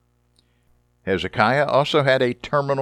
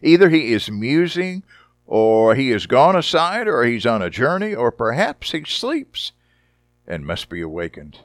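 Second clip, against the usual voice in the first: mocking taunt. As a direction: taunt them, sneering. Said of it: "Elijah mocked them".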